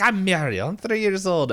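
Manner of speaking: put-on high little girl voice. Retelling the cartoon, a high little girl introducing herself. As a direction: pipe it up like a tiny girl. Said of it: "he's like".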